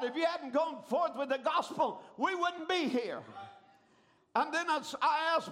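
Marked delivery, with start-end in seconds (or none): 0.0-3.2 retold cry of a multitude, raised in pitch. A multitude of converts to their preacher, crying out. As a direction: preach it as the crowd's heartfelt call. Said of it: "the multitude cried out".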